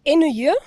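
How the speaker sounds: "Ennuyeux" tried slowly, each syllable loud and clear; careful pronunciation. Shown as a demonstration. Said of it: "C'est vraiment très bien".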